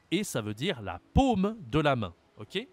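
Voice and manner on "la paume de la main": paume with a long closed O. Shown as a demonstration. Teacher explains the word for palm, closed O in paume. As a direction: lean on paume, rounded closed vowel. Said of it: "c'est la même prononciation que accent circonflexe".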